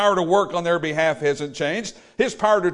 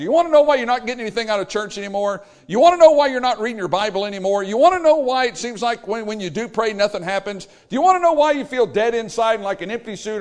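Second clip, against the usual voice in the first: thundering rebuke; 4 semitones higher, 4 dB louder, faster than usual. Acted. Preacher voicing God's rebuke.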